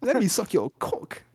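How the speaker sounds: drawn-out, hammed-up German accent; mock gay German. Podcaster playing a gay German greeting Hitler, camp German accent.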